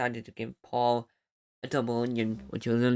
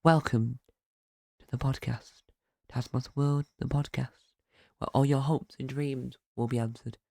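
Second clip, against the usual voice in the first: podcast voice. Shown as a demonstration. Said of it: "I tried to do my podcast voice, my radio voice".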